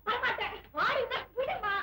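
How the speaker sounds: giggling, half-playful refusal; laughing tug-of-war. Acted. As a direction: pull her along with a laugh. Playful tugging, laughter heard.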